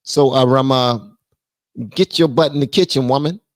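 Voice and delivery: hammed-up macho command to his wife; bossy quote. Relaying a viewer's joke demand to the wife, mock bossy. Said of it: "That's how he said it".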